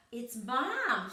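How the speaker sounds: a lightly voiced little squeak of relief. Molly hearing her mother calling, light squeak. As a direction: squeak it out like a small mouse. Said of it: "she squeaked".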